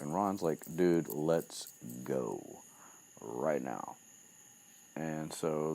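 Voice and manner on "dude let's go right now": urgent, drawn out. Retold or imitated. Retold Ron urging Harry out.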